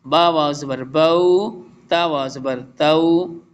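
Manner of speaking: spelling out letters slowly, short vowel; teacher drilling Qur'anic letter sounds; slow drilled recitation. Shown as a demonstration. Teacher reciting letters slowly for students, clear and drawn. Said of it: "यहाँ पे देखिए".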